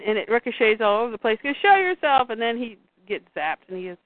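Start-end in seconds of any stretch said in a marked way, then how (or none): 1.6-2.3 higher, louder challenge; a storyteller yelling a hero's dare; retold shout. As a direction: call out to someone unseen. Jonathan yells at hidden voice.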